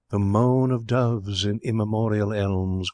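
slow, drawn-out verse; soft poetic quotation. A narrator's reading. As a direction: recite dreamily, savouring the vowels. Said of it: "quoted Mister Barstow softly".

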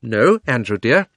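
firm aunt, hardly quiet at all; a touch of firmness, clearly projected; firm refusal. Acted. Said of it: "in her firm, quiet voice".

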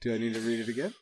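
breathless from laughing; after laughing hard. Real, not acted. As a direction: voice still wobbly from laughter.

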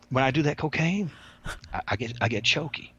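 lightly voiced inmate's confession; Love Kills impression. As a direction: imitate the inmate explaining his trouble. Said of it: "I speak like he speaks".

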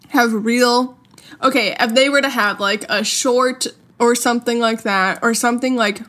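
talking around ice cubes; words slurred by ice in the mouth. Real, not acted. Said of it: "sorry, there's ice in my mouth".

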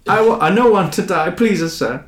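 high, laughing Gungan pleading; squeaky pleading alien, breaking into laughs; weeping Jar Jar. Acted. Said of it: "He sobs uncontrollably".

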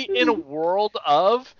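slow, drawn-out mock trailer opening; movie trailer voice. Shown as a demonstration. Showing friends the right trailer delivery, slow mock announcer. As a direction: stretch it out like a film trailer. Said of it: "you have to say that the right way".

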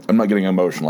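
a little hoarse, throat catching; talking through a frog in the throat. Real, not acted. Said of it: "I have a bit of a frog in my throat".

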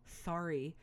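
mock grudging sorry with a groan first; grudging kid apology. Ten-year-old made to apologize to his brother, mock grudging. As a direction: imitate a kid's half-hearted apology. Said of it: "he does the typical ... thing that most kids do".

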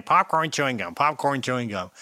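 lightly exaggerated American twang; mock American accent. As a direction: imitate a foreigner mocking an American accent. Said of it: "their impression of what all Americans sounded like".

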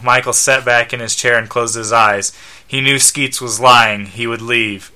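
measured read-aloud narration; story narration. A narrator's reading. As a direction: narrate the scene plainly, ends of sentences falling. Reads the comic story aloud.

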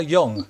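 Jung begun with a Y sound, like "Yoong"; pronunciation check. Real, not acted. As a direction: say Jung with an opening Y glide. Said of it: "how do you pronounce Carl".

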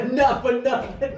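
put-on New Jersey accent. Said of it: "thick New Jersey accent".

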